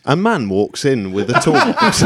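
audio description voice. Acted. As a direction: narrate the scene like an audio describer, amused. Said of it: "audio description".

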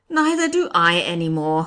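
loud exclamation by the judge; crying out. A narrator's reading. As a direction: cry it out emphatically. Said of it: "cried the judge".

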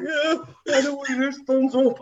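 very high-pitched mimicry of a friend; mock over-keen agreement; mocking a bluffer. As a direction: pipe up high with eager, fake know-how.

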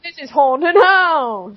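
very slow presenter announcement; TV man voice. Pretend. The girl announces the story as a TV man. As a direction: stretch it out like a TV host. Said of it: "default accent for T V man".

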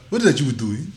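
put-on British speaker; British accent. British kid talking to friends on the playground, British accent. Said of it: "talk like a British nigga".

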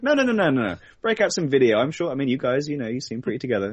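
hammed-up exec cutting them off, insisting on video; mock eager exec. Exec eagerly refusing, demanding video.

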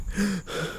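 soft imitated gasp for air; quiet hammed-up gasp for air; mock gasp. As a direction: gasp like you can't breathe. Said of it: "He's like".

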